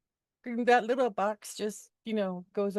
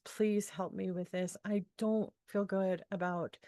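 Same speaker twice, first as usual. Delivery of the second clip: soft, slow plea to the universe; quiet prayer; 2 semitones lower, 4 dB quieter than usual. Retold or imitated. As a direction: murmur a gentle, slow request upward. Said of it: "I just put it out in the universe".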